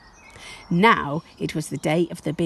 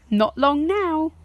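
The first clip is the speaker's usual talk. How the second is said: a higher, slow, soothing parent voice; slow parental reply; 10 semitones higher, 3 dB louder than usual. Acted. Parents soothe Josie, slow higher reply. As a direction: stretch it out to calm an eager child.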